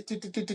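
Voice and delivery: mock thinking hum. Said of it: "that's literally what I said".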